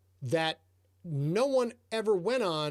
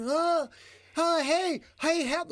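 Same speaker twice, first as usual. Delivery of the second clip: higher, louder call for help, waving him down; 10 semitones higher, 4 dB louder, slower than usual. Retold or imitated. Stranded rider calling out to the local for help. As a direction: yell out to the passing rider.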